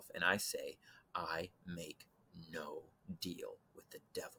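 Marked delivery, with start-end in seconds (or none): 1.1-4.4 half-whispered under the breath. Retelling half-whispering to oneself on a porch: imitating own half-whisper. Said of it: "I whisper, I'm talking whisper to myself".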